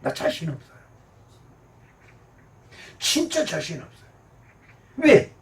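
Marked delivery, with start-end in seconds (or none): none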